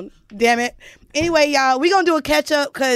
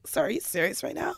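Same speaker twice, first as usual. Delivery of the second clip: softer, prim white-lady voice; really white voice; 4 semitones lower, 12 dB quieter than usual. Retold or imitated. The speaker mocking herself asking the chef in a softer white-lady voice. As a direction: put on a polite white customer's voice. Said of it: "In my really white voice".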